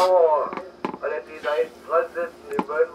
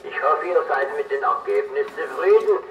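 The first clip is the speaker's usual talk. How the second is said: over cb radio. Real, not acted. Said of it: "Klingt auf einmal komisch".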